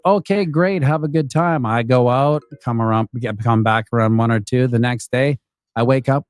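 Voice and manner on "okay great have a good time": higher, sugary agreeable voice; sweet girlfriend voice. Retold or imitated. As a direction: play the all-too-agreeable girlfriend.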